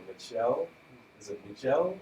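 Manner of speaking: "Michelle" tried out with a questioning lift; tentative, rising "Michelle"; unsure pronunciation. Real, not acted. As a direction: say "Michelle" as if checking you have it right. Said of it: "I think I'm saying this right".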